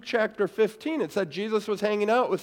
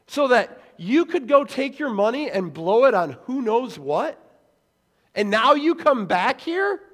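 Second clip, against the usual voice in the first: resentful complaint. Retold or imitated. Older brother protesting to returned sibling, indignant. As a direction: whine that it's so unfair.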